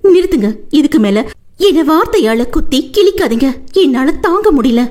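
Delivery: high, desperate crying plea; wife crushed by his words, high desperate cry; anguished wife. Acted. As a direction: beg him to stop the insults. Wife begs him to stop.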